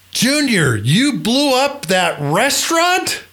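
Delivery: high-pitched, indignant disbelief; mock outrage. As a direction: demand it like a boss who is only half-serious. General scolding Junior, mock anger.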